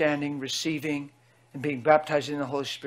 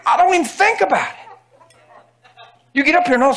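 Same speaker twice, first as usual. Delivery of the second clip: laughing preaching; 9 semitones higher, 7 dB louder than usual. Real, not acted.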